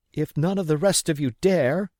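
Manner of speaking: daring the men to shame them; defiant mother. Acted. Mother shames the cowardly villagers, high and loud defiance. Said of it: "my mother made them a speech".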